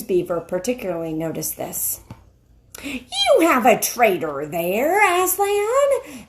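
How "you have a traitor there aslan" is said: slow, cold accusing witch. Acted. The witch accusing Edmund before Aslan. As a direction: lay the charge slowly, with contempt. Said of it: "said the witch".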